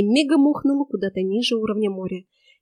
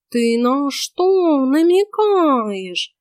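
very slow worried cat voice; suspicious cat sensing trouble; talking cat, suddenly alarmed; 5 semitones higher, 5 dB louder, much slower than usual. A narrator's reading. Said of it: "встревожился Васька".

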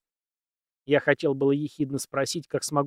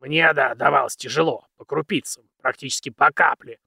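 put-on very old man; 5 dB louder than usual.

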